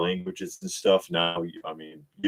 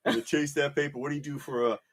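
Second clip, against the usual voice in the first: drug dealer voice; 3 semitones higher, 5 dB quieter, faster than usual. Pretend. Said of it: "David's drug dealer voice".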